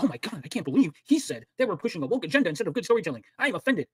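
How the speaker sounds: whiny mock-offended voice; hammed-up outrage, lightly voiced. S0 mocking a critic as easily offended. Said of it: "he got so offended".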